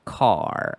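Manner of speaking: "Car" with a long open ah as in father; American car. Shown as a demonstration. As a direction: say "Car" the US way, ah vowel. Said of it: "pronounced with an A sound, as in father".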